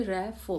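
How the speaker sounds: "रेफ" pulled apart into two syllables; broken into syllables. Shown as a demonstration. Teacher asking students to try saying it, syllable by syllable. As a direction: sound out "रेफ" in two separate parts. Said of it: "देखिए दो बार टूट रहा है".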